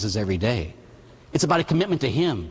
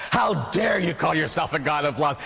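rising, more insistent rebuke; mounting indignation. Acted. Old man pressing his accusation at God, mounting indignation. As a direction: drive the accusation harder, pitch climbing.

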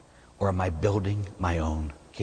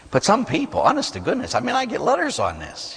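much higher and louder, worked up; exasperated; 12 semitones higher, 5 dB louder than usual. Real, not acted. Preacher venting about letters from complainers, exasperated. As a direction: throw up your hands at the complainers.

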